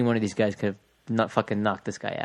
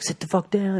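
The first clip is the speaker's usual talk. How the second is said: imitated police command; 10 semitones higher than usual. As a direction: imitate a cop ordering someone down. Imitates cop ordering knife man.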